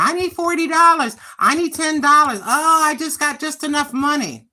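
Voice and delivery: sarcastic impression of a son pleading for money; mocking her son. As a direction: mimic a grown son asking for cash. Mimicking son begging for money.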